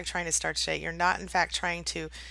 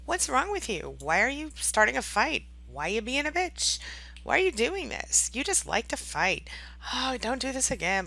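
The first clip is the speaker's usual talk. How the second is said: higher-pitched, exasperated imitation of accusations; mock accusing; 5 semitones higher than usual. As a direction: fire off indignant questions, imitating someone picking a fight. Imitating narcissist picking a fight.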